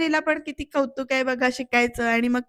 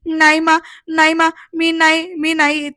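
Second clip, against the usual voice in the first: panicked denial; 3 semitones higher, 4 dB louder than usual. Retold or imitated. घाबरलेली निशा नकार देते.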